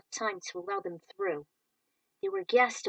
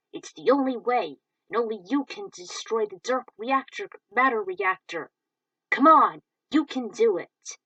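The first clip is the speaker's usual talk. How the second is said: loud rallying plea; urgent encouragement; 7 dB louder than usual. Acted. Friend urging Rick to destroy the reactor, loud. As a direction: push him to act now.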